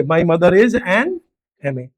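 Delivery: each word drawn out very slowly; slow demo. Shown as a demonstration. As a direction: spell out "my mother is an M A" word by word. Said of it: "English में आप ऐसे बोलोगे". (धीरे-धीरे, हर शब्द खींचकर)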